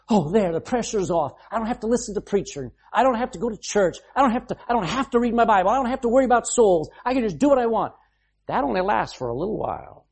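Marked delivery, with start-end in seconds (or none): 0.1-7.9 higher, faster careless voice; a lightly voiced carefree backslider; mock carefree relief. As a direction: toss it off like someone who is free of all duty. Imagined careless believer, relieved.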